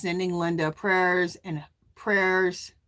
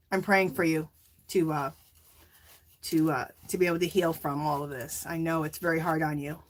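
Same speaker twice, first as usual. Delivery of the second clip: low, subdued comfort after a sigh; gently console, with hesitant pauses; tender condolence; 3 semitones lower, 3 dB quieter than usual. Real, not acted. Streamer praying for grieving viewer Linda, tender and subdued.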